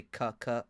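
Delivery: "cuh" with a hard k from the throat; short, soft "cuh" syllables; throat demo "cuh". Shown as a demonstration. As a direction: say "cuh" so the back of the throat is felt. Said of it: "if you say".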